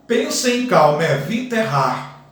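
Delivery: elide "calma, evita" into one flowing line; poetic pronunciation. Shown as a demonstration. Teacher showing students the poetic reading, elided. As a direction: say "Pensa em calma" with the vowels merged.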